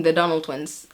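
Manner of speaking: "Donnell" stressed on the first syllable; mispronounced name. Shown as a demonstration. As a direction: slip back into DON-ul for "Donnell". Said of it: "is on the last syllable".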